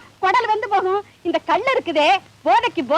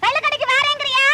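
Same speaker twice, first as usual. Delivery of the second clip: shouting; 5 semitones higher than usual. Acted. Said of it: "ஏன் கத்துற? மெதுவா பேசு".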